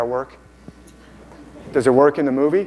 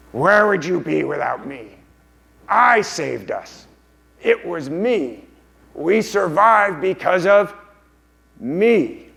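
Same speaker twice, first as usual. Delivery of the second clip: higher, slow, drawn-out creature voice; Gollum; 5 semitones higher, slower than usual. Acted. Gollum claiming credit from Smeagol, high slow creature voice. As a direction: insist you are the saviour, stretching the words. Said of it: "the golem character says".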